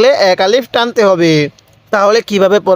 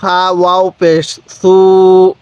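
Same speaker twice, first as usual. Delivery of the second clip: slow spelling. Shown as a demonstration. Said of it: "কিভাবে শিখব?".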